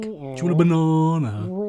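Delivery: stilted English-accent practice phrase; put-on English accent. Shown as a demonstration. Pupil showing Scotty the trick, put-on English accent. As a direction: try an English accent on each word. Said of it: "You missed the T. That's the trick".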